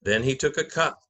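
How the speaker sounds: measured, solemn Gospel narration; liturgical reading. Acted. Narrator opening the Passion for the congregation, solemn reading. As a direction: read it like Scripture from the lectern.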